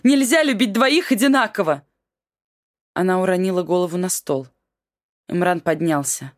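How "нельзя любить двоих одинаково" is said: high, loud cry of despair; wife shouting while pounding the table, high and loud. Acted. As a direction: scream it out. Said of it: "закричала вдруг Альбики".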